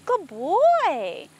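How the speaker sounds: high, drawn-out praise with a falling tune; horse praise. Real, not acted. Trainer rewards nervous horse for holding, high praise.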